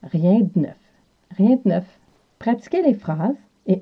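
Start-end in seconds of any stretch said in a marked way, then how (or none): 0.0-0.8 Rien de neuf avec de réduit à d; Quebec French accent. Shown as a demonstration. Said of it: "le E est muet". 1.4-2.0 Rien de neuf, d collé au n; Quebec French accent. Shown as a demonstration. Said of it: "le E est muet".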